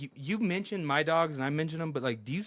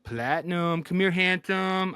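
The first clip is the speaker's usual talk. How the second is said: talking to a dog; 4 semitones higher, 3 dB louder, slower than usual. Real, not acted. Calls friend's dog on camera.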